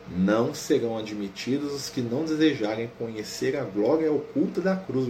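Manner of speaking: measured, solemn book reading; reading aloud. Acted. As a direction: read it out slowly like scripture. Reads from the spiritist book.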